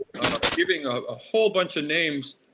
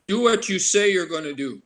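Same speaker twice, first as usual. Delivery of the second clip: grandfather's teaching; 5 semitones higher, 4 dB louder than usual. Retold or imitated. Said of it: "the other one that he taught me".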